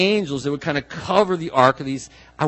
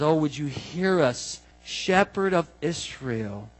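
lacking cry; 3 dB quieter, slower than usual. Shown as a demonstration. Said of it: "The cry comes out of a place of lacking and says".

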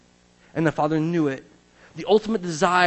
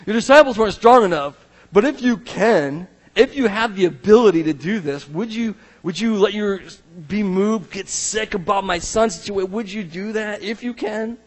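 pleading father; 4 semitones higher, 3 dB louder than usual. Retold or imitated. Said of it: "That's what the Father says".

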